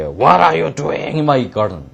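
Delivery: mild acted giant shout. Giant confronting children in his garden, mild shout. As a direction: call out as a storybook giant. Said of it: "He shouted. 그는 외쳤다".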